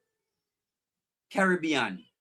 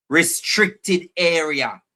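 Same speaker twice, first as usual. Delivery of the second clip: slow reading; 6 dB louder, much slower than usual. Real, not acted. Reading sign slowly.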